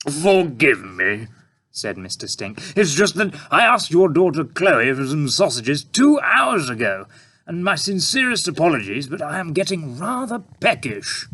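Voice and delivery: politely apologetic; polite tramp. A narrator's reading.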